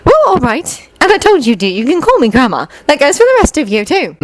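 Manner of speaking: high, motherly fondness; warm. A narrator's reading. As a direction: offer it warmly. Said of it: "Molly said warmly".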